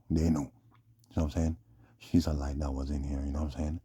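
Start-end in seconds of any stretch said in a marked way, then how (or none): 0.1-0.4 loud. Real, not acted. Sudden loud after whisper.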